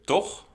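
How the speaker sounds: "toch?" on a high rising tune; high questioning "toch?"; checking tag. Shown as a demonstration. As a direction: tack it on like asking for a yes. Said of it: "when you're checking something".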